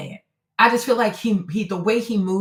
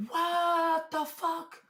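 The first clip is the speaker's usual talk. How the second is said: very soft, very slow, higher; stunned disbelief; 7 semitones higher, 9 dB quieter, much slower than usual. Real, not acted. Streamer stares at the photo, stunned hushed disbelief. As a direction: let it crawl out in disbelief.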